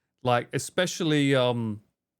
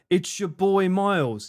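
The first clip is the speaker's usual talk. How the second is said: streamer intro voice; 5 semitones higher, 3 dB louder, slower than usual. Pretend.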